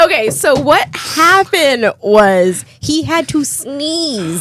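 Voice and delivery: slow words through laughter; laughing. Real, not acted. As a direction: still laughing while talking. Laughing fit before explaining.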